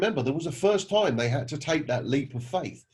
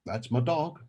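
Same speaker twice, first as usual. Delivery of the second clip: lightly voiced laconic old man; a hint of an old Alabama local; old country man; slower than usual. Old man answers the salesman about his dog, lightly voiced and laconic. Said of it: "And the old guy goes".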